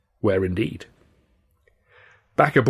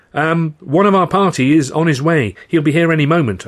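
higher, louder, insistent excuse; anxious stalling; 6 semitones higher, 6 dB louder than usual. A narrator's reading. Friend to the guard about the late manager, anxious stalling. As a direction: stall the official with raised voice.

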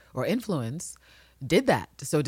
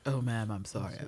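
imitating a cowed man, softer and lower; meek mock apology, pitched down; voice dropped, apologetic; 4 semitones lower, 7 dB quieter than usual. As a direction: drop it to a small apology. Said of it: "his voice drops, like, three decibels".

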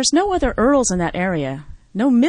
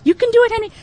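talking to a dog; 12 semitones higher, 6 dB louder, much faster than usual. Acted. Coaxing dog to poop.

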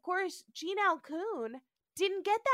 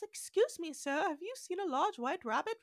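polite Alice voice; 4 semitones higher than usual. Retold or imitated. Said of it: "little blonde girl with an English accent".

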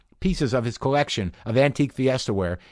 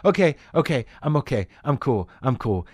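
self-calming; 2 semitones higher than usual. Retold or imitated. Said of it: "I'm like".

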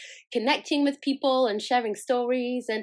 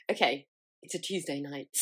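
mock audiobook voice; 7 semitones lower, 6 dB quieter than usual. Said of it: "I don't know why I'm doing that voice".

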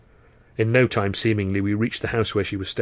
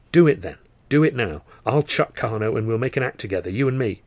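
eager pleading. Acted. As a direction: urge her to come with you. He urges her eagerly.

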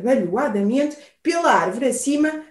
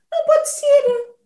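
alarmed disbelief; 12 semitones higher than usual. Acted. Owl alarmed, sound nears.

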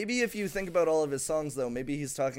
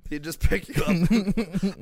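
Forrest Gump impression; 4 semitones higher, 7 dB louder, slower than usual. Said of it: "a bad Forrest Gump impression".

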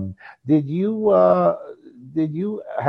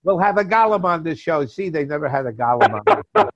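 put-on Jewish accent; 4 semitones higher than usual. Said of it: "that nice Jewish accent".

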